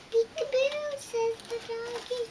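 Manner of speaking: high, bright sing-song peekaboo; excited peekaboo. Acted. Big peekaboo reveal to the toddler. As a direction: make it a fun reveal for the little one. Reading peekaboo book to child.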